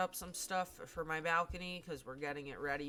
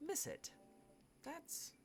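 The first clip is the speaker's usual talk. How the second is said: mock emotional alien; 12 semitones higher, 14 dB quieter, slower than usual. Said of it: "don't mind me getting a bit emotional here".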